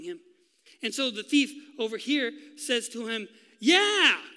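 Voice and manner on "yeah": high, loud scornful yeah; mocking. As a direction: sneer it out. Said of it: "He mocks him too".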